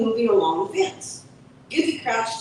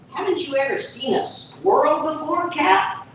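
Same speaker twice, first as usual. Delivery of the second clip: squirrel voice; 8 semitones higher than usual. Acted.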